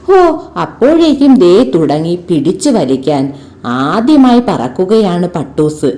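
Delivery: put-on lively storybook narration for children; ഉത്സാഹത്തോടെ കഥ വായിക്കുന്നു; story reading. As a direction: read the kite tale expressively to pupils. Reads the kite story aloud.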